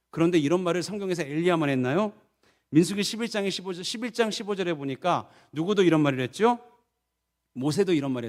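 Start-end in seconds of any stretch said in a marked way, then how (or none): none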